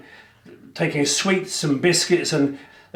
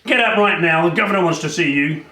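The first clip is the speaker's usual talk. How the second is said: gruff guard; 3 semitones higher than usual. Acted. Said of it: "the guard came in and he said".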